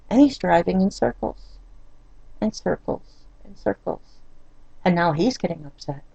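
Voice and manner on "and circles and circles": softer, breathy whisper repeating it; whispered exasperation. Real, not acted. Wife whispering about husband driving in circles, weary.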